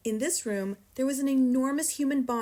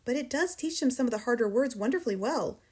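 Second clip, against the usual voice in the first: usual speaking voice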